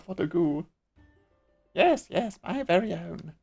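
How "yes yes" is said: Yes, yes, pitched higher and louder; eager yes. Acted. Eager agreement.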